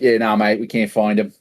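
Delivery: lightly put-on Australian accent; a casual Australian cop brushing it off. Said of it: "I don't know why he's Australian".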